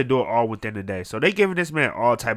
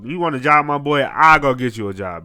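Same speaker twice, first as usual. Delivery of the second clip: eager offer; 6 semitones higher, 11 dB louder than usual. Acted. Acting out eager helpful friend.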